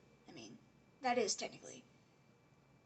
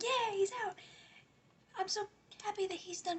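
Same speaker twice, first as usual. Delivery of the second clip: mock cheer; 9 semitones higher than usual. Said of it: "everyone's like".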